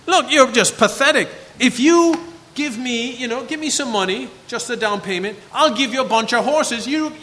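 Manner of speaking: mocking enemy taunt. Preacher voicing the Assyrian taunt.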